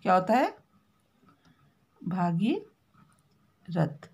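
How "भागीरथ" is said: भागीरथ drawn out long and low; slow spelled-out भागीरथ. Shown as a demonstration. Teacher spells out भागीरथ slowly to the class. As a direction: stretch भागीरथ syllable by syllable for pupils. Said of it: "इस तरह से लिखते हैं".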